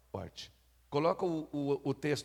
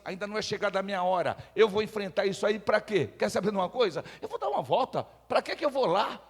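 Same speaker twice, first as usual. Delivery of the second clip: casual Jesus; 3 semitones higher than usual. Acted. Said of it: "ele falava assim".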